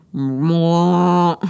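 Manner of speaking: loud, drawn-out eerie meow; imitating a horrifying loud cat yowl; demon meow. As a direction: make the cat sound like a demon. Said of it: "like a demon sound".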